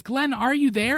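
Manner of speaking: high loud desperate call; retold scream. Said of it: "she finally says".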